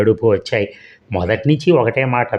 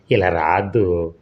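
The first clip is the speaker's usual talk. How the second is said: impatient reproving call; 3 semitones lower, slower than usual. Acted. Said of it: "అసహనంగా మందలింపుగా పిలిచాడు".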